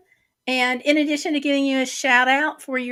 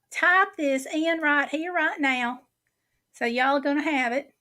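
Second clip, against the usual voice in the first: put-on, stretched-out Southern accent; 2 semitones higher than usual. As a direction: lay on a Southern accent, exaggerated as if on steroids. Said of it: "in my best legit Southern accent".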